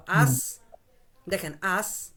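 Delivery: "আস" alone as a first syllable; pronunciation demo. Shown as a demonstration. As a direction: sound out "আস" separately, with a pause after. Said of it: "কিভাবে উচ্চারণ করবো?".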